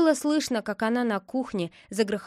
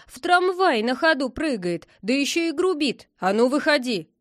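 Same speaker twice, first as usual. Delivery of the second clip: higher, louder affronted complaint; huffy; 4 semitones higher, 5 dB louder than usual. A narrator's reading. Militia helper scolding the boy on the tram, huffy. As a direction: list his offences indignantly. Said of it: "сказала обидчиво осадмиловец".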